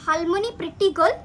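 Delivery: "हालमोनी प्रिटी गर्ल" with Harmanpreet's r turned to l, rising at the end; Korean mispronunciation. Retold or imitated. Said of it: "बोलना आ रहा। वो कहते हैं क्या". (कोरियाई अंदाज़ में गलत उच्चारण, "हालमोनी प्रिटी गर्ल")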